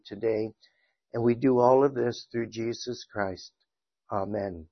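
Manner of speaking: even, subdued prayer with pauses between phrases; public prayer. Real, not acted. Teacher thanks God before the parables lesson, praying. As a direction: lead the room in reverent, restrained prayer.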